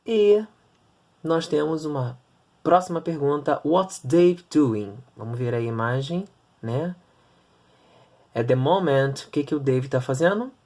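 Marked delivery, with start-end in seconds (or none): 3.6-5.0 slow model question. Shown as a demonstration. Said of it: "teacher models the question".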